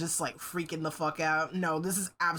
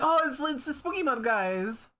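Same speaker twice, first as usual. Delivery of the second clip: excited; 5 semitones higher than usual. Retold or imitated. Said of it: "Para was like".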